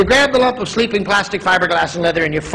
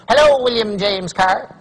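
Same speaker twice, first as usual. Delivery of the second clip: slow telemarketer greeting; lightly voiced telemarketer, drawn out; slower than usual. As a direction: read the name out like a cold caller. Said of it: "You know it's a telemarketer".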